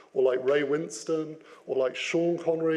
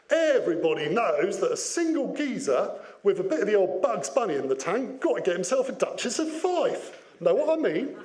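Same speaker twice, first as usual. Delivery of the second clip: mock Cockney geezer; 3 semitones higher than usual. Shown as a demonstration. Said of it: "expressed through Cockney rhyming slang".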